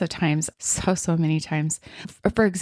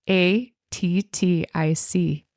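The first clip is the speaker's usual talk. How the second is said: slow spelling; much slower than usual. Shown as a demonstration. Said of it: "spell attic".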